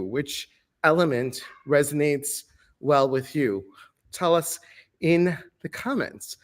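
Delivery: breathless after running up stairs; out of breath. Real, not acted. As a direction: talk while still catching your breath. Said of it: "I'm out of breath".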